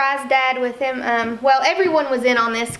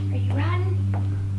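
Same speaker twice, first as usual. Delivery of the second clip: higher, slow sing-song; talking to a dog; 6 semitones higher, slower than usual. Real, not acted. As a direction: stretch it out to the puppy. Repeated to puppy, drawn out.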